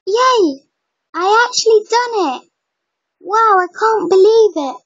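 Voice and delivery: high excited squeal of delight; excited cheer. Real, not acted. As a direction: cheer like the trick just worked. Spell worked, cheering.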